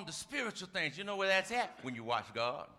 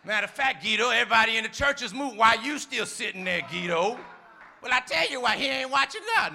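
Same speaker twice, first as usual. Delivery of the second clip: teasing call-out; 2 semitones higher, 7 dB louder than usual. Real, not acted. Preacher loudly teasing Guido in front of the church. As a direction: call him out loud and playful.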